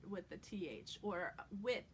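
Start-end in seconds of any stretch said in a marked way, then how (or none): 1.6-1.9 "wit" ending on a crisp t; T instead of TH. Shown as a demonstration. Coach offers a second option, "wit" with a T. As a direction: say "with" as "wit", New York style. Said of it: "like a T almost".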